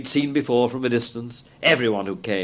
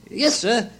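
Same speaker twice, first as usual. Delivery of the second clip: high little maid's voice; servant girl; 10 semitones higher than usual. A narrator's reading. Servant girl answering Scrooge at the door, high and polite.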